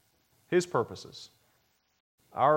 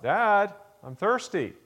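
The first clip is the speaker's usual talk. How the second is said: put-on much higher, louder little boy's plea; child calling out; 9 semitones higher, 6 dB louder, slower than usual. Son calls a third time to his dad, high loud whiny call. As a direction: call out like a small boy who won't sleep.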